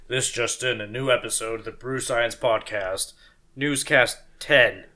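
mock newsreader announcing a bulletin; announcer voice. Host announcing a new episode, announcer voice. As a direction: read it like a news flash, slowing into the last words. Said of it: "do an announcer voice".

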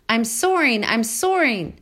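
high, loud joyful gosling cry; excited shout. A narrator's reading. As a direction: crow with delight while soaring. Gosling thrilled at flying.

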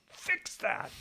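whispered "Fix that"; a pointed crew whisper; mock crew whisper. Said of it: "they looked at me like".

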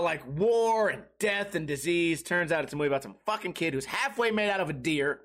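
normal talking voice

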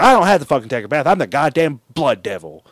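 fast, loud indignant snap; quick loud bratty comeback; bratty retort. Retold or imitated. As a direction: fire it back fast and offended.

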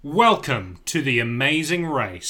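slow host welcome with a New Zealand accent; Phil Keoghan impression. Shown as a demonstration. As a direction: announce it slowly, a New Zealand accent slipping through. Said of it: "that was just a New Zealand accent".

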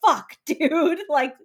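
incredulous and fed up; mock outrage. Imitating Lizzie rebuking Darcy, mock outrage fading. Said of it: "until she's like".

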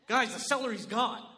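nervous alarm. Retold or imitated. Nervous guest warning the room, mock panic. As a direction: sound the alarm over the celery.

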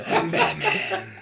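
squeaky, very high Batman voice; slow Batman line as if on helium; Adam West on helium. Acted. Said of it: "sounds like Adam West, like, you know, on helium".

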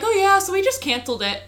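very high, chirpy fake-cheerful rep; mock customer service voice. Mocking the dental company rep to her friend, high chirpy mock voice. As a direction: parody the breezy brush-off.

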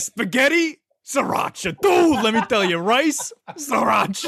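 high-pitched stoner parody; mock stoned friends. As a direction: imitate a stoned hot-sauce fan raving. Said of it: "It sounded like you were both stoned".

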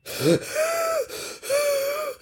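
high, long airy gasp for breath; exhausted gasp. Acted. Whirlwinds fallen on the ground, gasping for breath. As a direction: gasp like a worn-out wind. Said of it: "gasping for breath".

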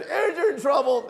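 high, slow imitation of old man; hammed-up drawn-out high exclamation; old man's holler. Storyteller repeating the old man's words, high slow holler. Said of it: "He said".

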